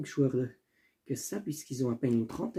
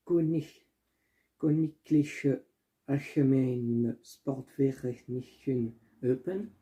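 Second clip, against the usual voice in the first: clumsy German pronunciation; slower than usual. Real, not acted. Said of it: "Excusez-moi pour l'accent".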